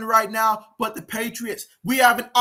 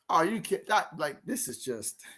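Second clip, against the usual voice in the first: deflated; 5 semitones lower, 7 dB quieter than usual. Real, not acted. Deflated after the missed play.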